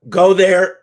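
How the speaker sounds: frog in throat, catching voice. Real, not acted. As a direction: push words past a frog in throat. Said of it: "Frog in my throat".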